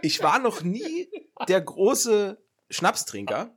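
laughing, high and slow. Real, not acted. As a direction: say it through a laugh. Laughs after Sambuca confession.

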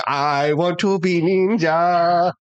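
slow, high hammed-up Asian accent; mock Asian accent. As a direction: drag it out in a bad Asian accent. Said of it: "the really bad Asian accent as well".

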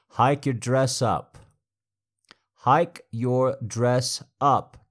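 loud, slow, forceful order to hike the dress; loud command. Acted. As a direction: bark the order slowly and hard. Barked dominant command.

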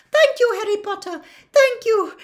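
high, loud elf gasps of thanks; breathless. Acted. Dobby pulled from the table by Harry, breathless. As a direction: squeak thanks, catching breath. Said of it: "said Dobby breathlessly".

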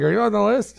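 the doorman checks the list, Aussie twang; imitating an Australian accent. Doorman asking Eric about the list, mock Australian accent. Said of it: "combination of Australian and Cockney".

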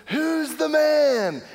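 high, slow, gloating yell; a kid bragging after his goal; yelling boast. Retold or imitated. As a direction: crow it to the whole field. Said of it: "I start yelling".

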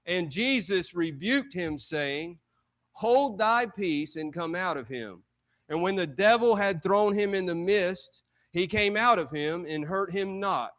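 measured pulpit reading of scripture. Acted. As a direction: read the verse out solemnly, stretching key words.

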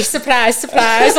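loud, playful "Surprise, surprise" like a cheeky announcement; mock surprise. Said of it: "Shall I just get up here now and say".

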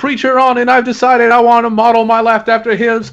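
a hint of a Sunday preacher; preacher impression. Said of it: "Yeah, I do impressions".

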